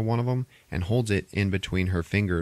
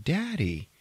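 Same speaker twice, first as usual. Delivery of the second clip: put-on childlike daddy; 9 semitones higher, 3 dB quieter than usual. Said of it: "she's like".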